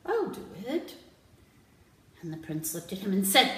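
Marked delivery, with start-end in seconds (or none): 0.1-1.0 second I'll pitched higher and keener; eager volunteer. Acted. Jellyfish volunteers to the prince, rising and eager. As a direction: push forward, desperate to be chosen.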